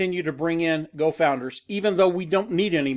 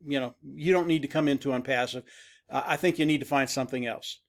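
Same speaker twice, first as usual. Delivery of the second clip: softer, lower, kindly turning someone away; gentle letdown; 4 semitones lower, 5 dB quieter than usual. Retold or imitated. Recruiter turning away a negative prospect, nicely and gently. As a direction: let them down easy in a lowered, soft voice. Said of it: "very nice way, no hurt feelings, tell them".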